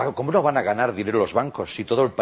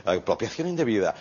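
softer, lower, mock-refined aside; understated mock elegance; refined legal term; 4 semitones lower, 5 dB quieter than usual. Shown as a demonstration. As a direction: say it delicately, as fancy court language. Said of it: "que queda muy fino".

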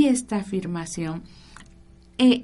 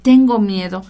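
mock fearful plea; 7 dB louder than usual. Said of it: "en lugar de decir".

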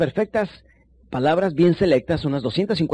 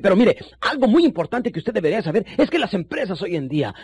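emphatic point; 5 semitones higher than usual. Shown as a demonstration. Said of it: "te levantas, golpeas en el escritorio y dices".

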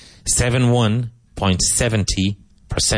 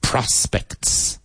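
PROS-pects with a raised first syllable; first-syllable stress; 4 semitones higher than usual. Shown as a demonstration. Teacher repeating after explaining the emphasis, stress opening "Prospects". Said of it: "Emphasis on the first syllable".

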